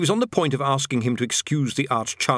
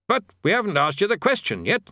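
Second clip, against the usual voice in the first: high, anxious bursar; protest, a bit higher; flustered; 9 semitones higher than usual. A narrator's reading.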